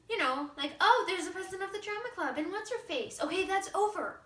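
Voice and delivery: bubbly, over-the-top airhead; ditzy teen girl. Acted. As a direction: gush like a vain new class president.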